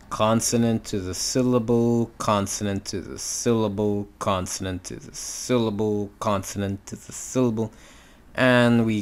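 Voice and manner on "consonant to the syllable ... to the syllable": repeating chain, stretching "syllable" each time; rhythmic pattern demo. Shown as a demonstration. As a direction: chant evenly, gliding from "consonant" into a long "syllable". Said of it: "So it's like this".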